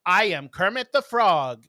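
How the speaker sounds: Kermit the Frog. Retold or imitated. Kid at the microphone in a costume contest, terrible impersonation. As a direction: imitate a kid's terrible impersonation, slowly. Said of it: "the kid's Kermit impersonation".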